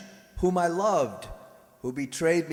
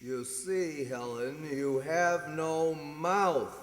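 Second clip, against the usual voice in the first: slow cruel taunt; 4 dB quieter, slower than usual. Acted. Killer repeats his taunt.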